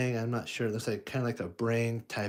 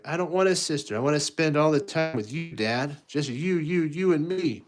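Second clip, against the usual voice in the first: put-on high, louder pleading kid voice; clingy little boy; 5 semitones higher, 3 dB louder than usual. Luke begging his dad for time together, high pleading kid voice. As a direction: beg like a child wanting dad all to himself. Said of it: "Luke's like".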